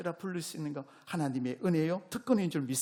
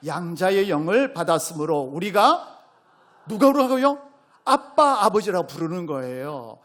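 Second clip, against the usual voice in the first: preaching at full force; 2 semitones higher, 11 dB louder than usual. Real, not acted. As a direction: proclaim it with everything.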